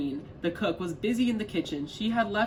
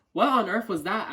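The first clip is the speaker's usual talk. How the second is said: surprised; 3 semitones higher, 5 dB louder than usual. Acted. Witch startled by noise.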